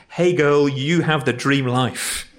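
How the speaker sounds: a hint of gushing teen, stretched out slowly; lightly voiced sixteen-year-old, drawing out the compliment; imitated teenage gushing. Preacher imagining a teenager's compliment, lightly mock-gushing in his own accent. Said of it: "Doesn't work in my accent".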